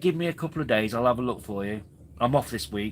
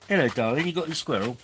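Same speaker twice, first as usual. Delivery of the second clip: lilting, raised pitch on the question; affectionate pet talk; 4 semitones higher, 3 dB louder than usual. Real, not acted. Greeting the pet with its squirrel, affectionate pet talk.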